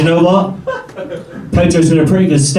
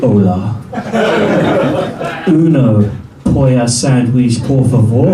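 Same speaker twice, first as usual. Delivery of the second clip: slow, mock-confident Spanish order; 5 semitones lower than usual. Mum ordering from the waiter in Spanish, mock-confident. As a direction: order with misplaced confidence, taking your time. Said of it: "with all the confidence in the world".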